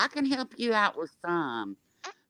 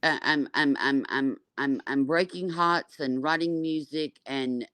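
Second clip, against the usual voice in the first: pretend singer; 3 semitones higher, 3 dB louder than usual. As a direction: play a singer bragging, slightly raised voice. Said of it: "she never sleeps".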